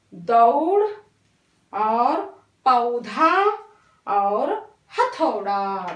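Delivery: each औ word said apart and clearly; teacher models the औ words; careful word demo. Shown as a demonstration. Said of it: "औ की मात्रा वाले शब्द".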